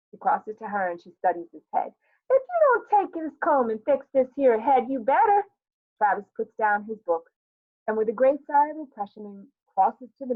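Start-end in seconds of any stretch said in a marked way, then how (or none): 2.3-5.4 higher, louder maternal threat; acted fed-up mom, voice pushed up; scolding mother. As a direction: warn the child with rising exasperation. Acted mother threatening untidy son.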